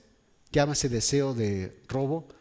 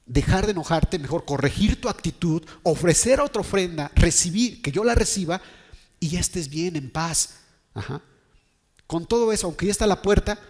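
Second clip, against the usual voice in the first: higher-pitched, insistent sermon plea; emphatic preaching; 4 semitones higher, 4 dB louder than usual. Acted. Preacher voicing God urging Caín to correct his attitude, emphatic. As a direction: urge them point by point.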